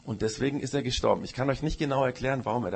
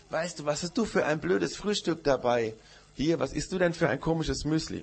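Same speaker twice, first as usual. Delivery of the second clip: higher, mocking child voice as the goat; teasing goat; 4 semitones higher than usual. Goat taunting the little goose at breakfast, mocking.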